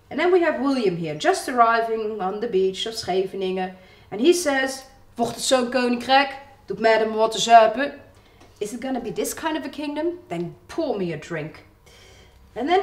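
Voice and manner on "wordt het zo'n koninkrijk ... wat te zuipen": Hague dialect. Acted. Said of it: "I'm doing this in Haags".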